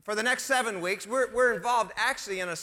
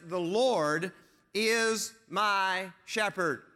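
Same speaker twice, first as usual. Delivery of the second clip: slow solemn quote; much slower than usual. Shown as a demonstration. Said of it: "when he says".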